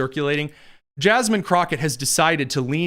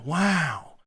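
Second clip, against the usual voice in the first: Owen Wilson; 5 dB quieter than usual. Acted. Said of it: "It was Owen Wilson".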